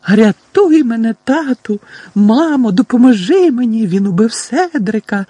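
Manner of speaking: very high, loud cries for help; mock screaming. A narrator's reading. Boy mimicking cousin's nightmare, high mock screams. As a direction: shriek the mimicked pleas at full pitch.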